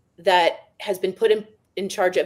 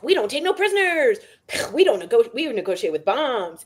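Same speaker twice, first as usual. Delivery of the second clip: hammed-up action-hero boast, higher; G I Joe voice; 3 semitones higher than usual. Mocking the war chief's slogans, hammed-up action figure. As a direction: play a toy soldier bragging. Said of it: "It sounds like G I Joe".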